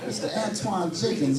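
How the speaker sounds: lightly voiced prim caller; a hint of a fussy collector; imitating collector. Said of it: "he said".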